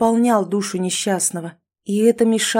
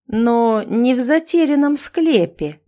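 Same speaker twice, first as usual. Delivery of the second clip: slow, cryptic hint; mysterious; 5 semitones higher, 4 dB louder, slower than usual. Acted. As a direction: let it hang mysteriously. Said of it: "загадочно произнёс Эрик".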